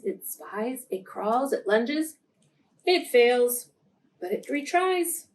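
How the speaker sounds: gentle storybook reading; reading to children. A narrator's reading. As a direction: read it like a picture book for little kids. Reading a picture book to children.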